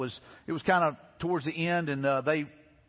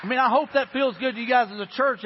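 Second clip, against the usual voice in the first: rousing; 5 semitones higher than usual. Real, not acted. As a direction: lift the room with it. Preacher rallying the church.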